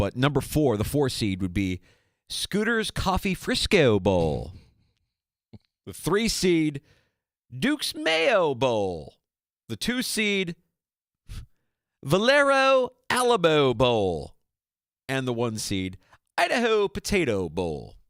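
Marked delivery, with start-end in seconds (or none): 2.3-17.8 put-on swooping, high Baltimore accent. Listing the bowl game seeds, the speaker reads them in a Baltimore accent. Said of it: "read or said in the Baltimore accent".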